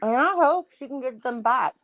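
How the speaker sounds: talking through a mouthful of food; chewing while talking. Real, not acted. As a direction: speak around a bite of food. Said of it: "I'm eating".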